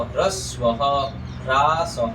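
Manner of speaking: ह्रस्वः, ह्रासः with initial "hr" and final echoed "ha"; pronunciation demo. Shown as a demonstration. Teacher models ह्रस्वः for students, careful demo. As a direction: say ह्रस्वः as "hras-vaha", ह्रासः as "hraa-saha". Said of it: "ऐसे उच्चारण करेंगे यहाँ पर".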